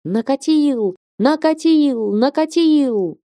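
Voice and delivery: climbing to a very high, stretched shriek; frenzied shriek. A narrator's reading. Ilaria hopping and shrieking in ecstasy, rising frenzied shriek. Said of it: "визжит неистовым голосом".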